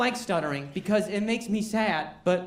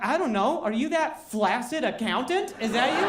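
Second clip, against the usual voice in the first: high sarcastic comeback; 3 semitones higher than usual. Retold or imitated. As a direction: throw it back mockingly. Acted retort with rising tone.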